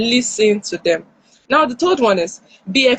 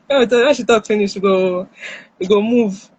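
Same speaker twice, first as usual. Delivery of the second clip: impatient inner voice. Retold or imitated. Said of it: "your mind is like".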